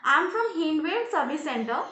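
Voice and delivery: voice muffled by cloth. Pretend. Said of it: "voice change କରିବା ପାଇଁ ଗୋଟେ କପଡ଼ା ଦରକାର".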